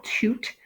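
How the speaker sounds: "toot" said alone with long U; isolated syllable "toot"; single syllable. Shown as a demonstration. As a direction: sound out just "toot". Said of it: "my last syllable".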